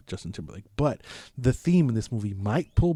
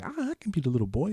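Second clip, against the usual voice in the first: quick, lightly voiced little kid; little boy; 3 semitones higher, 4 dB quieter, faster than usual. Bubbles offers to be the boy, quick kid imitation. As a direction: imitate an eager small boy. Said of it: "Bubbles is like".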